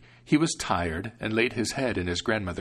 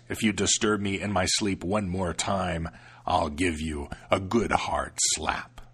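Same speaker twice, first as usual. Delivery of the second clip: smug devil; 2 semitones lower than usual. Acted. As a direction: boast the secret. Devil explains then threatens.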